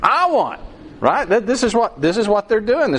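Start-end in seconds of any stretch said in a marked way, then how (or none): 0.0-0.6 put-on squabbling kid. Kid grabbing the truck.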